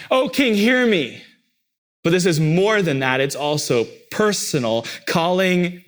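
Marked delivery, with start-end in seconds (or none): 0.1-1.2 pleading, higher cry; a pleading "O King, hear me"; desperate cry to God. Acted. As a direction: call out like a desperate petitioner.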